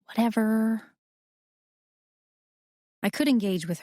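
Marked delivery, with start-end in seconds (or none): 0.0-1.0 put-on higher, dismissive girl's "whatever"; a touch of a scornful sister; hissed disbelief. A narrator's reading. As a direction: brush it off with contempt. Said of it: "She hisses out her disbelief".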